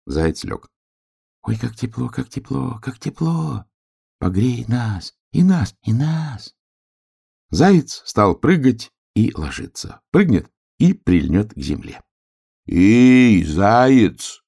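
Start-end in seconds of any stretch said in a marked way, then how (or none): 1.4-6.5 tiny high voice of the grass, delighted; little grass blades begging to be warmed. Acted. 12.7-14.4 loud hail from the hill; calling out. A narrator's reading. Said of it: "крикнул с холма медвежонок".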